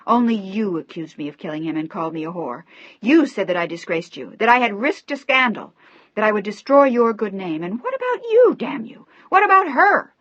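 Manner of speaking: loud, high, tearful fury; sobbing rage. A narrator's reading. Daughter sobbing and screaming at her father, furious. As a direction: scream through tears. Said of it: "She began to sob hysterically".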